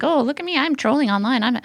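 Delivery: high put-on voice of a show-off; mock an attention-seeking online troll; mocking wannabe troll. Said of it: "They think".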